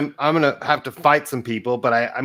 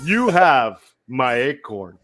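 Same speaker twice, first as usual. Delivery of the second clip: slow put-on critter voice; squirrel voice. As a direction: do your one silly voice, slowly. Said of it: "That's the only voice I can do".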